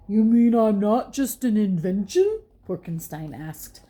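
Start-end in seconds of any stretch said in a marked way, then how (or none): 0.1-2.4 louder, hopeful question; touched monster pig. A narrator's reading. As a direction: ask it hopefully. Porkenstein asks.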